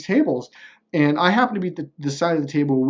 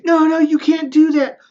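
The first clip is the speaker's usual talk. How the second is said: high, frantic squeak of a panicking opponent; mock the rival begging him not to walk; panicked opponent; 13 semitones higher, 6 dB louder than usual. Opponent pleading at the negotiating table, high panicked squeal.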